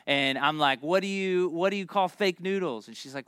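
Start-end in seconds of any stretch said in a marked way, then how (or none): 0.8-2.9 lightly voiced joke question; joke setup. Kid trying a joke on mother in the store, joke-setup delivery. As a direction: pitch the riddle as a child comedian.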